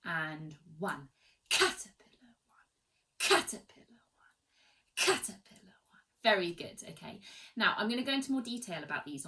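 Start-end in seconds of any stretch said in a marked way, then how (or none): 1.5-6.0 high, punched start on caterpillar; accented caterpillar. Shown as a demonstration. Teacher counting the class in, accented. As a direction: lead the class through the accent. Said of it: "so are you ready?".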